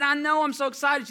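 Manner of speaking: high, loud, playing along with a child; excited uncle. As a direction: gush back at a little kid. Uncle matches niece's excitement.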